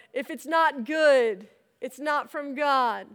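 slow, measured reminder; lightly voiced voice in the head; inner voice. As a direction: stretch out each phrase slowly. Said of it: "I hear my own voice saying".

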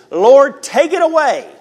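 high, loud cry of "Lord, take it away"; anguished loud plea; desperate plea. Acted. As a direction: beg God to lift it, pushing the voice up and out. Paul's plea to God, acted.

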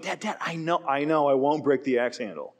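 mock impatient kid brushing off a parent; disrespectful brush-off. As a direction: wave off the warning dismissively. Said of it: "Totally disrespectful".

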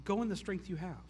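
a quiet, calm promise; soft first take. Shown as a demonstration. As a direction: say it softly and gently, almost to yourself. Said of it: "And, and God says".

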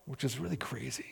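a hushed unvoiced aside to the congregation; whispered aside. Real, not acted. Preacher whispering an aside to the congregation.

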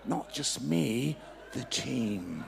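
slow, deliberate encore; slow repeat. Shown as a demonstration. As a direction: say it again, slowly and deliberately. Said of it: "would you like to come up and do that as a mime".

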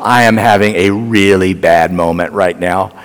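upset. Retold or imitated. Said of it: "I am so upset".

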